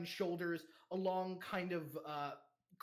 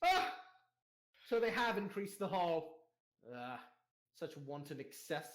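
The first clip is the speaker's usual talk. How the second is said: haughty mother-in-law. Acted. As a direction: sneer at the hall's excess as a grand dame. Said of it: "comes forth and goes".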